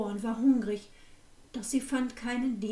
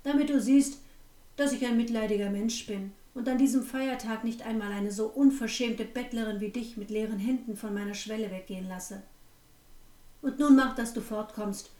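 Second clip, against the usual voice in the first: threatening. Acted. Innkeeper threatens the girl.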